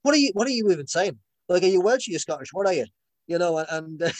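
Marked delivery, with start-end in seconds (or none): 0.0-2.9 higher, louder mock disbelief at a slipping accent; imitating a castmate breaking character, puzzled; incredulous retold question. Castmate breaks character to question the accent, loud and high-pitched. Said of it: "it was like".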